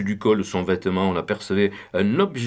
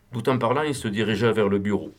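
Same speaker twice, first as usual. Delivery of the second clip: plain reading voice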